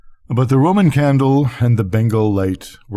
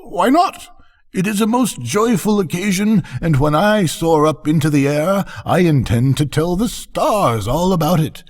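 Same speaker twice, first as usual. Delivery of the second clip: a much higher, eager little voice; cheerful tiny balloon telling the stars, pitched high; small fire balloon; 8 semitones higher than usual. A narrator's reading. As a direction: float the words up high like a joyful little balloon. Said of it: "exclaimed a small fire balloon".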